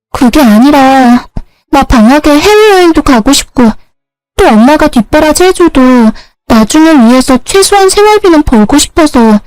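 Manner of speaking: high-voiced kid sister justifying herself; younger sister, pleading. Plays the younger sister explaining herself. (높은 목소리로 항변하는 여동생)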